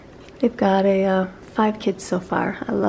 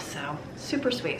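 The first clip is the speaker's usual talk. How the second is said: whispered; 3 semitones lower, 7 dB quieter, slower than usual. Real, not acted. Touched by the letter.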